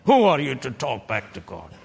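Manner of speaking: booming voice of God. Acted. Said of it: "He could have said".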